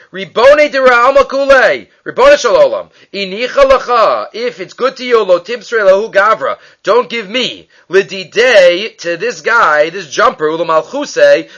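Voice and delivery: mildly imploring, pitch lifting on the appeals; lightly acted plea to God; pleading prayer. Caesar davens to God not to lose to one man, pleading. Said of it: "and he davens".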